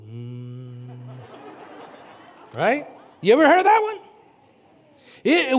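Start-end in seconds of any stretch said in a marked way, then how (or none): 0.1-1.0 mock hum. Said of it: "And then I just go".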